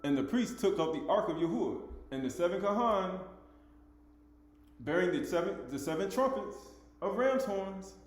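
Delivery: emphatic, measured Bible reading; scripture reading. Acted. Teacher reading scripture to listeners, declamatory.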